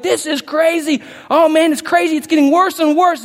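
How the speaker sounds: a worried crowd wailing that it's crazy, in mock panic. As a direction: play the frightened crowd crying out. Voicing anxious world.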